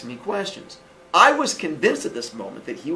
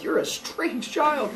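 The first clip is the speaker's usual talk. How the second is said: slow, higher, softer reply; baffled homeowner; 10 semitones higher, 6 dB quieter, slower than usual. Retold or imitated. Homeowner to the clinging boy, slow baffled voice. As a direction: draw it out in mock bewilderment.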